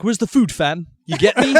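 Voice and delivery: cocky British slang accent; British drug dealer. Shown as a demonstration. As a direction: play a London street dealer. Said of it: "I can do posh, like, British drug dealer".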